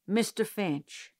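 slow, stolid and unmoved; stolidly. Acted. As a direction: stand your ground, slow and immovable. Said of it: "Mister Tate said stolidly".

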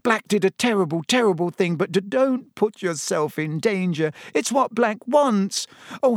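high-pitched, imploring, near tears; tearful pleading. A narrator's reading. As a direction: beg a friend to see sense. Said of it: "her eyes now shining with tears".

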